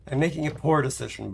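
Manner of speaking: fast, hitting poor; I'm making a POOR decision; stress on poor. Shown as a demonstration. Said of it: "but I'm making a decision".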